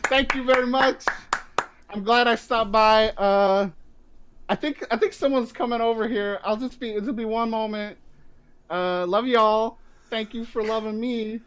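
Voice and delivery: put-on Brooklyn accent. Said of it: "my Brooklyn accent".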